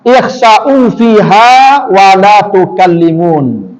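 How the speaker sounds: slow, drawn-out Quranic chant; Quran recitation. Acted. Preacher recites God's answer to hell's people, slow chant. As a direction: chant the verdict slowly and gravely.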